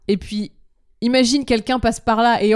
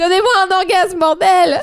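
whiny demand; 8 semitones higher, 4 dB louder than usual. Pretend.

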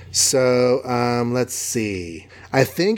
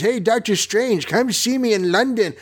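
high put-on imitation voice; a high mimicking voice; imitating voice; 9 semitones higher than usual. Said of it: "he's really good at doing voices".

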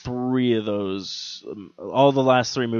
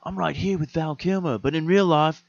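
put-on Australian-sounding accent, higher pitched; Tom Cruise; 4 semitones higher than usual. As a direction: imitate a movie star with a misplaced Australian accent. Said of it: "I don't know why I gave him an accent".

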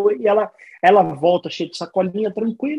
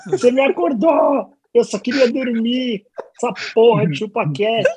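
rudely awakened; 4 semitones higher than usual. Pretend. Wife woken up by podcast. (esposa acordada de repente, reclamando alto)

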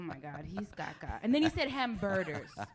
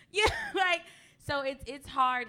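ordinary talk

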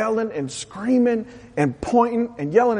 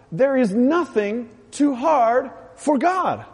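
slow emphatic declaration; 3 semitones higher, slower than usual. Shown as a demonstration. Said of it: "Here's another one".

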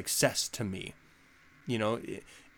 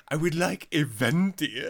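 mock Italian accent. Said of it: "try to add an accent".

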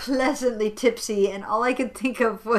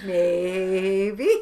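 laughing; 5 semitones lower than usual. Real, not acted. Answers euphemism question.

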